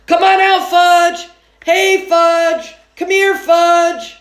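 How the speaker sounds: high, loud dog-calling voice; boy calling for his brother like a pet. A narrator's reading. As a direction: coax him out like a puppy. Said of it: "I sounded like I was calling a dog".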